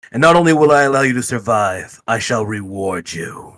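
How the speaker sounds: spooky ghost voice. Acted. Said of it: "you start doing all spooky, saying this chant".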